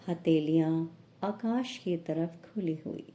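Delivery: measured yoga nidra instruction with long pauses; unhurried relaxation guidance, pausing after each instruction; guided meditation. Acted. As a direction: guide them into relaxation phrase by phrase.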